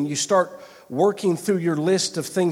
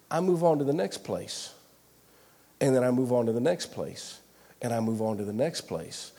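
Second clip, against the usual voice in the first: each repeat lower and softer, with pauses between; fading repetition; 5 semitones lower, 5 dB quieter than usual. Shown as a demonstration. Preacher admits moving on in prayer, refrain fading away. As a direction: let the refrain sink step by step.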